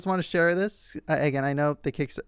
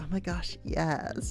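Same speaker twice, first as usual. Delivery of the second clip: squeaky, super high-pitched falsetto, drawn out and exaggerated; 9 dB quieter than usual. Retelling how Vlad answers flirting guys: imitating Vlad's super high-pitched voice. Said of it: "super high pitched and just really leaning into it".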